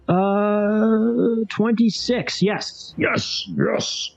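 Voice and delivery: hissed celebration under the breath; relieved yes. Real, not acted. Sanity roll succeeds.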